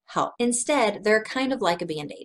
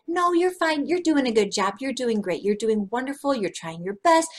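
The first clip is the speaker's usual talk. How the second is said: breezy reassurance; 3 semitones higher than usual. Retold or imitated. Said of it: "come up to me right then and said".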